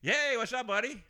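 hammed-up phone greeting; fake phone call. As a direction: play up a staged call to escape. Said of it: "Did you say it just like that".

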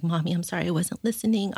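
lightly voiced child apologizing; child's confession. Mom quoting her daughter's confession, lightly imitated apology. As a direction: retell a little one's apology, lifting slightly at the end. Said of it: "she also confessed".

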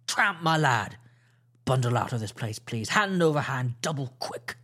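lightly voiced stern naval captain; clipped orders from a ship's captain; captain coldly sending the pirate away. Captain dismisses Silver sternly.

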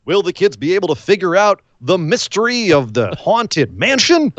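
hammed-up cliffhanger voice-over; playful teaser read with swooping pitch; mock TV announcer. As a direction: tease the next segment like a cartoon announcer. Mock cartoon cliffhanger announcer before break.

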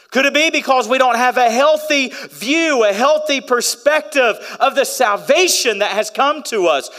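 high, loud fervent preaching; impassioned sermon climax; full-force preaching. Acted. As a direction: preach it with fire to the congregation.

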